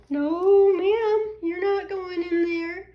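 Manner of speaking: high sing-song scold to a pet; firm but playful no, ma'am. Real, not acted. Scolding the dog.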